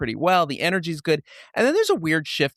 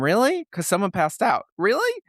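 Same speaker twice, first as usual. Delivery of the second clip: mock disbelief; 6 semitones higher than usual. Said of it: "it's like".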